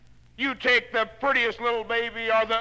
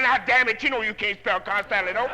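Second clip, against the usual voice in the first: teacher's scold; 3 semitones higher, 4 dB louder than usual. Retold or imitated.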